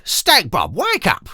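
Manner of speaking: loud, high pleading call; urgent cry. Acted. Sister urgently waking her sleeping brother, loud. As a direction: shout him awake. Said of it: "she cried".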